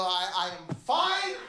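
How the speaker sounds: mock-theatrical answer, jumping up in pitch at the end; theatrical reply. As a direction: answer nervously like a stage actor. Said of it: "Like I'm in theater".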